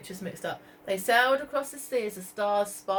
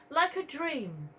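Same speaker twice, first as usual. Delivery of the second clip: put-on dreamy little girl; 6 semitones higher, slower than usual. Katie voiced, dreamy.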